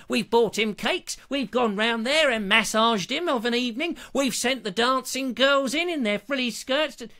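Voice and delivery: lightly voiced indignant viewer ranting; grumbling viewer. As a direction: moan like an indignant fan. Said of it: "turn up en masse going".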